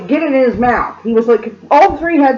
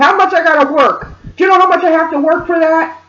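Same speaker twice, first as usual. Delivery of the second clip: higher, lightly imitated complaint; retold guilt-trip, pitched up; mild mock screaming; 5 semitones higher than usual. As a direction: complain as the aggrieved mother, half-voiced. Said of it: "She's screaming about how much".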